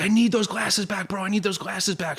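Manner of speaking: lightly voiced guy asking for his sunglasses; stranger wanting glasses. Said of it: "The guy's like".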